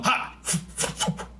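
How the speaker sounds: breathy cartoon "Ha!" like Johnny Bravo; a quick cartoon hero exclamation. Host adds Johnny Bravo noises to hand gestures, quick cartoon "Ha!". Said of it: "Like Johnny Bravo".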